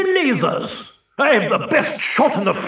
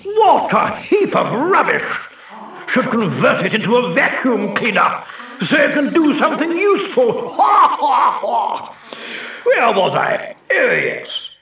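showing off; 3 semitones lower than usual. Acted. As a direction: sneer and brag. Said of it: "sounds like a show-off to me".

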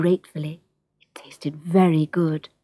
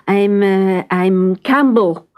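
hesitant cat; 4 dB louder, slower than usual. Acted. Startled cat stammers his name.

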